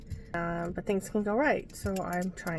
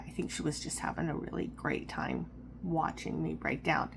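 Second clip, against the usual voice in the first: whispered, soft and bitter; half-whispered; 3 semitones lower, 5 dB quieter than usual. Real, not acted. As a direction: let it drop to a hoarse whisper. Bitter later recollection.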